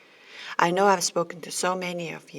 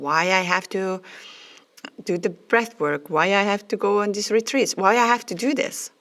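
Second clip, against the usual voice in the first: exasperated past self; faster than usual. Retold or imitated. To her old self, complaining about the spiritual work, rising exasperation. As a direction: rant like your bewildered past self, rising each question. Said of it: "I was like".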